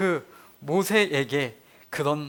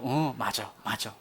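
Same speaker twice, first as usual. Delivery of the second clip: much softer, lower nod-along; quiet agreement; 7 semitones lower, 8 dB quieter than usual. Retold or imitated. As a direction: murmur it as you realize. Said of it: "하고요". (조용히 수긍하는 목소리)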